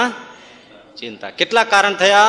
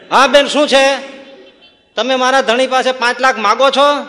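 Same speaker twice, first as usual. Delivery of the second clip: confronting; 5 semitones higher, 6 dB louder than usual. Retold or imitated. Wife confronts neighbour.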